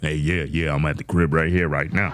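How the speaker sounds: put-on deep bass voice. Retelling an overheard phone call, imitating the deep bass voice heard. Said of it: "you heard like bass in the voice like".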